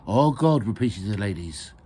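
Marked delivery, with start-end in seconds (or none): 0.1-0.6 raised, louder congregational echo; echoed prayer. Acted. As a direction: repeat the leader's prayer call. Ladies repeat the prayer call.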